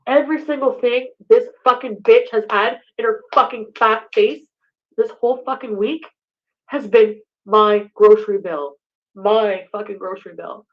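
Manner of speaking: loud, furious rant about the bill. Real, not acted. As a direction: tear into him over the money. Ranting at boyfriend on stream.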